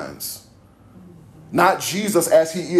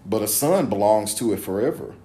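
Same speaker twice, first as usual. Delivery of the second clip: measured, emphatic Bible reading; scripture reading; 3 semitones lower than usual. A narrator's reading. Preacher reading Jesus' words to the congregation, measured scripture reading. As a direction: read it out deliberately, phrase by phrase.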